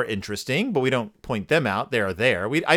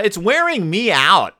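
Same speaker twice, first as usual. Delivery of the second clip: higher-pitched mild whine of complaint; complaining sister; 5 semitones higher, 3 dB louder than usual. Acted. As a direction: lightly voice a fed-up child's grumble. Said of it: "sister immediately complains".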